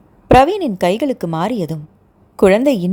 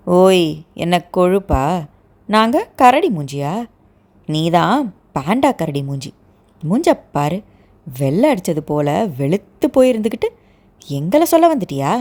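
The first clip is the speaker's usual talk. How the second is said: bristling retort; 2 semitones lower than usual. Acted. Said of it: "சிலிர்த்து கொண்டு சண்டைக்கு தயாரானாள்".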